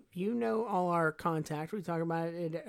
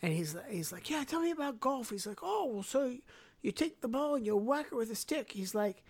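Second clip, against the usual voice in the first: put-on Scottish accent; 5 semitones higher than usual. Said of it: "he does these great accents".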